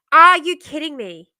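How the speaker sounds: loud, fed-up outburst; real loud disbelief; exasperated. Real, not acted. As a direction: throw it out in frustration. Exasperated at muted mic.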